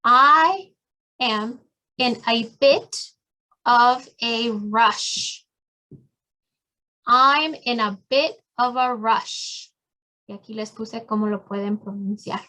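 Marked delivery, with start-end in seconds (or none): 0.0-5.4 drawn out, with pauses between words; slow clear model phrase. Shown as a demonstration. Teacher modeling a phrase word by word, slow and halting. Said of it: "también pueden decir". 7.1-9.7 slow, smooth and connected; now say it as one smooth line; slow fluent model phrase. Shown as a demonstration. Teacher repeating the phrase whole, slow and connected. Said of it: "también pueden decir".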